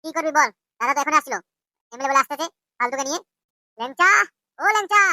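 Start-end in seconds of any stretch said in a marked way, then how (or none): 3.8-5.0 rising call to someone off; calling out by name. Acted. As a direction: call them over, second call higher. Calling out to Lyangcha.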